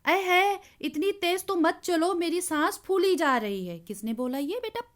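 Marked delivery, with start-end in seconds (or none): 0.1-3.8 a mild mock cry of a scared kite; frightened cry. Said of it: "चिल्लाकर कहने लगी". (डरी हुई पतंग की ऊँची पुकार)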